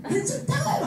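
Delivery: very high comic protest; mock quarrel. Mother refusing the gift in a row, mock exasperated squeal. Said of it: "엄마랑 막 대판 싸우고".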